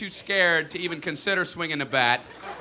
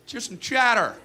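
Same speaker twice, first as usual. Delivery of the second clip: mock yell from the dugout, pitched up; coach yelling; 5 semitones higher than usual. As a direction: imitate a coach hollering to his team. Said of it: "coach would yell from the dugout".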